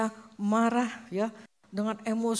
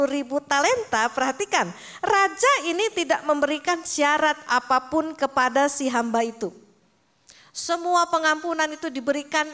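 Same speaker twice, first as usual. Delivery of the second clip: louder, emphatic pulpit delivery; preaching; 4 semitones higher, 5 dB louder than usual. Acted. Preacher urging the congregation to forgive without conditions, emphatic. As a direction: drive the point home to the congregation.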